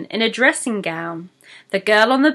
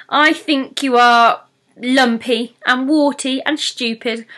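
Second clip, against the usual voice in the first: whispered insult; 3 semitones higher than usual. Acted. Pixie blurts insults.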